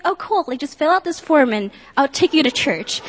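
high, chirpy imitation with a laugh in it; delighted friend. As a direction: mimic her thrilled reply.

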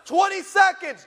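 loud, high time cue; director's call. Retold or imitated. Director shouting the seconds left, loud and high. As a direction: bark the countdown.

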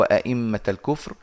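أئمة with both hamzas pronounced fully, no alif; teacher's demo of plain tahqiq in أئمة; full hamzas. Shown as a demonstration. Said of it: "تحقيق الهمز من غير إدخال". (تحقيق الهمز في أئمة)

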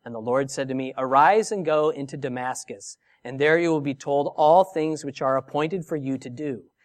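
measured Bible reading; scripture reading. Acted. Preacher reads Paul's defense to the congregation, measured reading. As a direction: read the passage aloud to the congregation. Reading Acts chapter aloud.

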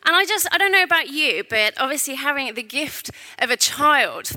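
echoey voice in a large hall; mic echoing round the room; big hall echo. Real, not acted. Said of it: "I'm echoing".

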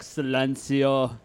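long drawn-out hushing call; Vatican guard. Acted. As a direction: slowly intone it like a chapel guard. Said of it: "there's a guy in there".

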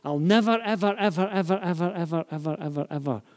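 "ever" repeated in a rapid chain, starting high and stepping down; emphatic parental promise. Acted. Parent reassuring the kids, insistent chain of "ever". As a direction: pile up each "ever" for reassurance. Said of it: "if we're talking to our kids".

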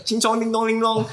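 high sing-song put-on Asian accent; a crude, high jokey Asian gibberish; mock Asian accent. Carrying on his Asian accent joke for the host, high sing-song. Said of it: "my best Asian accent".

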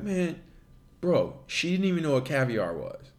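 light dopey caveman bro; a touch of a dim-witted caveman; dumb caveman voice. Retold or imitated. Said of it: "put on the dumb caveman voice".

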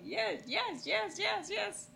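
high, rapid-repeat string of yeses; clueless agreeing. Retold or imitated. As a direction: imitate saying yes to everything without understanding. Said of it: "gave him a yes without knowing".

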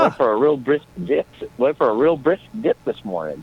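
a light put-on Minnesota accent; easygoing Minnesota accent. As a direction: chat like a folksy Minnesotan. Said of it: "I love that accent".

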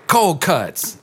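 deadpan mom. Retold or imitated. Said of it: "And she was like".

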